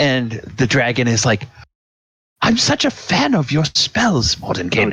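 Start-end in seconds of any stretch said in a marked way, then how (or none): 2.4-4.9 gushing, starstruck, admiring voice, pitched up. Retelling a game story, voicing the dragon meeting mordenkainen, put-on fanboying dragon voice. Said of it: "Dragon fanboying".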